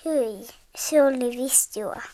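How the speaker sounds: disgusted whisper. Pretend. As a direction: shudder and whisper it. Brita after being locked up. (inhottunut kuiskaus)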